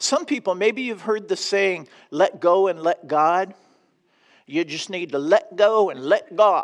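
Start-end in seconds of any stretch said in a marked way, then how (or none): 2.1-6.6 put-on Southern US drawl. Quoting a popular saying about trusting God, in a Southern accent. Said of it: "I have to say that with a Southern accent".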